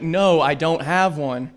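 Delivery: slow, clipped annoyance; irritated no; irritated, slow refusal. Retold or imitated. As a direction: spell it out, fed up. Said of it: "I was just like".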